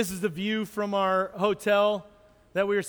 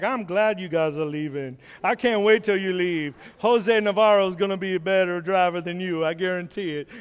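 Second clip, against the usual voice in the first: Charles Barkley voice. Pretend. Van glad to see its drivers go, lightly voiced Barkley. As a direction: gloat as the battered van. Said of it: "we had these voices".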